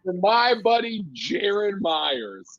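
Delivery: laughing imitation of a stage intro; imitated host's introduction. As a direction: announce a buddy to the crowd, amused. Repeats host's teasing introduction, laughing.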